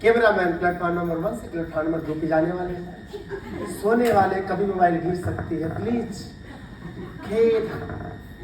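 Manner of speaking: station PA announcer voice; echoing train announcement. Retold or imitated. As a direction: announce it like a railway loudspeaker. Mimics railway station announcement.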